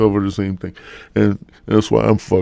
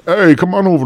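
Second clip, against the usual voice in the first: higher, louder call to a buddy; mock hearty invitation; 10 semitones higher, 5 dB louder than usual. Man inviting friends for cheeseburgers, mock hearty. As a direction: call out like an over-keen host. Calling buddies to man cave.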